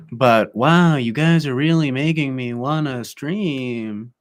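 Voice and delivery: sarcastic mock enthusiasm, drawn out at the end. Real, not acted. Streamer to bickering viewers who make streaming a chore, sarcastic. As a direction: gush sarcastically. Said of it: "I'm being sarcastic".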